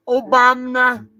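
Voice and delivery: "Obama" with extra pizzazz, Obamna. Acted. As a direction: stretch "Obama" into Obamna with a little flourish. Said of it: "I hear you saying Obama like that".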